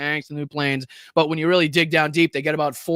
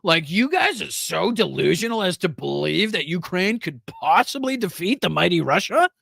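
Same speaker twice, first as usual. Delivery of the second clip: mock condescension. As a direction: mimic the guest's talking-down tone, lightly. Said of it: "That condescending tone".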